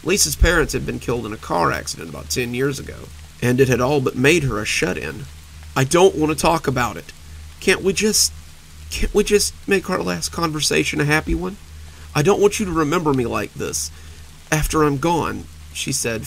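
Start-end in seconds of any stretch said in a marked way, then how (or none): 5.8-15.4 high, tearful pleading; crumbling into tears; breaking down. Acted. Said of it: "finally breaking down".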